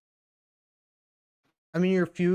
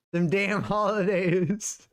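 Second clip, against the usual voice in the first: drawn-out grumble; 6 semitones higher, 3 dB louder, much slower than usual. Pretend. Joking about the holidays.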